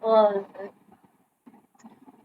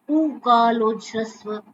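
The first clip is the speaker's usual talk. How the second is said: slow measured citation; 3 dB louder, slower than usual. Shown as a demonstration. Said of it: "ऊ उच्चारण जितनी देर".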